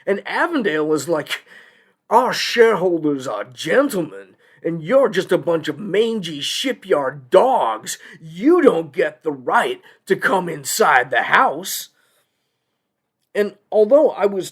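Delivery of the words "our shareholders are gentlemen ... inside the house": lightly acted haughty indignation; scornful company voice. Company scolds shipyard workers over shareholder rights, haughtily. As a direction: look down on the workers as you refuse them.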